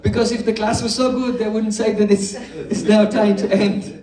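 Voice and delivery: teacher laughing at the bored student joke. Real, not acted. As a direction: let the laugh carry the explanation.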